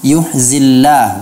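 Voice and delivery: imitating the error, slow yuhzillahu; kha read as ha. Shown as a demonstration. Teacher imitates the student misreading kha.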